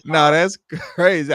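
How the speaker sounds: ordinary delivery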